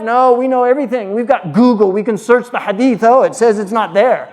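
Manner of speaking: lightly mocked cocksure objection; mock know-it-all. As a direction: imitate smug critics boasting. Mimicking overconfident modern critics.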